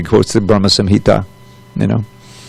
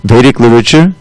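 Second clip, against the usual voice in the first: scripture reading. Acted. Teacher reading the purport to students, formal reading voice. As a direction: read the holy text steadily to the class.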